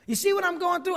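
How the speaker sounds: pitched high, leaning hard on see; pleading question. Retold or imitated. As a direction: insist that they really look. Asking observers about his suffering.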